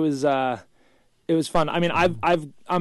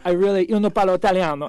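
Italian accent; 6 semitones higher, 7 dB louder than usual. Shown as a demonstration. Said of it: "I'll say it with, like, a decent accent".

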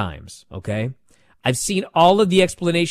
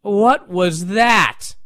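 mouthed; 4 semitones higher, much slower than usual. Retold or imitated. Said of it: "you can see him mouth".

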